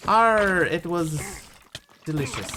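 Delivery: lightly hammed pirate growl. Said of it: "talk like a pirate day, me hearties".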